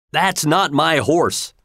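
the owner refuses what he sees; a mild indignant cry. Acted. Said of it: "cried the owner".

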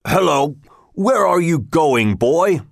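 a hint of a rough forester hailing a stranger; forester calling out. A narrator's reading. Forester calls out to young Robin on the path, lightly voiced. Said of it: "called out to Robin, with his mouth full".

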